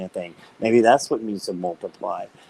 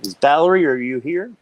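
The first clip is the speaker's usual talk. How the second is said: calling out; 4 semitones higher, 5 dB louder than usual. Real, not acted. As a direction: call her into the room. Calling out for a viewer.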